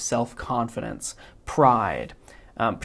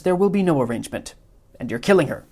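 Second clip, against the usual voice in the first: quick, higher, indignant schemer; Wallace Shawn's Vizzini; 5 semitones higher, 4 dB louder, faster than usual. Acted. Vizzini cutting off the Man in Black, fast and indignant. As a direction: snap it out fast like a fussy villain. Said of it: "mimicking Wallace Shawn's inflection".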